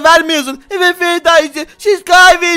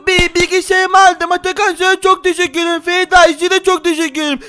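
put-on lightly raised child voice, relieved and grateful; a spider boy thanking his dad, a little higher; spider kid; 3 semitones higher than usual. (hafif ince sesli örümcek çocuk)

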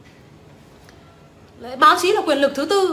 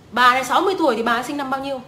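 quick impatient repeat of the question; fast repeat; much faster than usual. Real, not acted. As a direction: rattle off "sinh năm bao nhiêu" quickly. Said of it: "Nếu tính ra bà này".

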